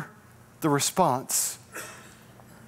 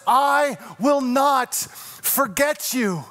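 slow tender promise; 4 semitones higher, slower than usual. Acted. God's promise, slowed.

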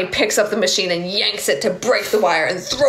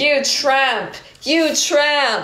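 enraged outburst; 8 semitones higher, much slower than usual. Acted. Finds Lisa's nightgown, enraged.

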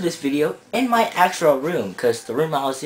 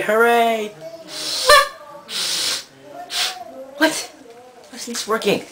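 high mock cheer; 9 semitones higher than usual. Mock celebration, surprise.

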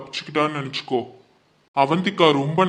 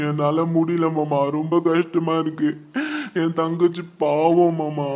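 distressed. Acted. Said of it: "வருத்தப்படாதப்பா".

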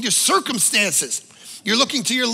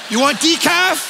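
calm flight attendant; 4 semitones higher than usual. Retold or imitated. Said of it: "pour the coffee".

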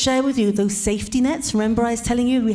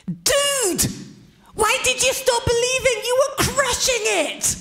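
high, slow laid-back surfer voice; casual surfer-bro Jesus, pitched well up; surfer-dude Jesus; 13 semitones higher, slower than usual. Retold or imitated. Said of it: "Modern day paraphrased".

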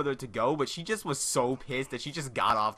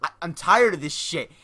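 loud mock rant, voice pushed up; imitated furious rant; 3 semitones higher, 5 dB louder than usual. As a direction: blow up at the guy like you've had enough. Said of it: "He's like".

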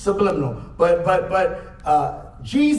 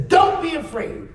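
emphatic command; 6 semitones higher than usual. Retold or imitated. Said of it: "He says".

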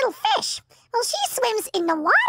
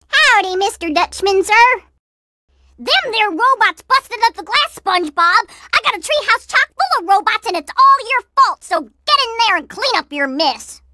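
cowboy voice; 4 dB louder than usual. Acted. Cowboy character scolding.

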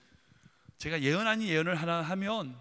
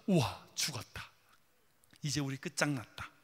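hushed dismay; 7 semitones lower, 5 dB quieter than usual. Acted. Disciples facing huge wave, despairing.

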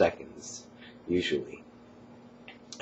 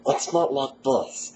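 a pitched-up put-on voice, slow; higher pitch; 7 semitones higher, 5 dB louder, slower than usual. Shown as a demonstration. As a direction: push the voice up and slow it. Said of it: "not what you call modifying".

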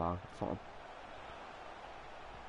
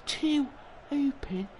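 exasperated wail; 13 semitones higher, slower than usual. Real, not acted. Frustrated after missing open goals.

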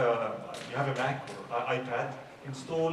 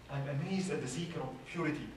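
the poem line again, softer and falling; softer recited verse; 6 dB quieter than usual. Shown as a demonstration. Repeating the poem line to the congregation, softer. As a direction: drop the voice, let it settle. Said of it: "there is this poem that says".

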